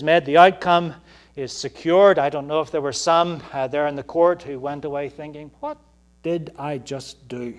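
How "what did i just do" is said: stunned second thoughts. Retold or imitated. Court member walking away doubting the decision, mildly stunned.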